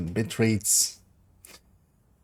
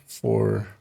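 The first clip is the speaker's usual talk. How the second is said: vocal fry. Real, not acted. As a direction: let the voice crackle with fry. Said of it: "that's a lot of vocal fry on that voice".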